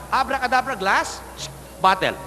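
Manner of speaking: grand magic command; magician's incantation. Acted. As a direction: proclaim the spell. Magician casts the trick.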